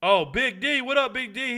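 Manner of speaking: high, loud hail to a fan; excited greeting. Real, not acted. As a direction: greet a buddy with delighted surprise. Greets a fan spotted in chat.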